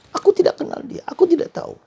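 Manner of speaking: very high, loud denial; panicked denial. Acted. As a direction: deny it in a frantic rush. Peter's frantic denial.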